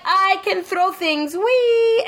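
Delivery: high, slow mock-girlish voice; Lucia. Gamer mocking a lame heroine's powers, silly high voice. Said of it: "She was just like".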